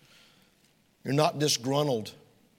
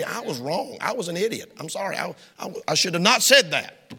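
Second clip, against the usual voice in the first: sincere apology. Shown as a demonstration.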